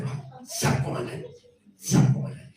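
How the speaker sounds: breathy, hushed yes-sir to a commander; hushed mock salute. Preacher mimics an obedient worker answering the pastor, hushed. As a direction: murmur it like a keen recruit.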